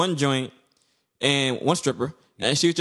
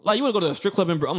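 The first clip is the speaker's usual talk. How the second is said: mock disbelief; 4 semitones higher than usual. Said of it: "I'm like".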